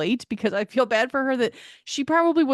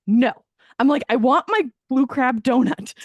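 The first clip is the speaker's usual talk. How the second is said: louder, firm demand for the crab donut; firm insistence; 2 semitones higher, 6 dB louder than usual. Retold or imitated. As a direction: put her foot down, louder. Insisting on her appetizer order.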